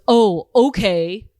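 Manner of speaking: deflated man. Retold or imitated. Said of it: "he goes".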